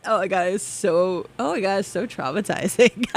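talking through laughter; giggly disbelief; laughing. Real, not acted. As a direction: laugh while you say it.

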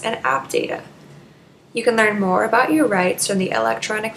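measured radio announcement read; public service read. Acted. Radio host advising listeners on phone rights, public service read. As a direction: read it out evenly, like a prepared station message.

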